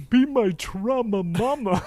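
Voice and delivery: loud, slow, hammed-up flirt; flirty character voice. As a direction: croon it like a lovesick cook. Sanji flirting bit.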